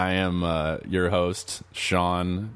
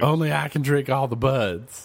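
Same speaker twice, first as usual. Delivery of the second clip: zombie voice; 7 semitones higher than usual. Pretend. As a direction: groan it out like a silly zombie. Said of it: "being a zombie".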